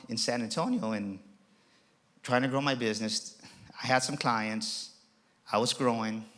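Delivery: soft and low, confiding a hard moment; hushed confession. Acted. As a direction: drop the voice, intimate. Confessing breakdown quietly.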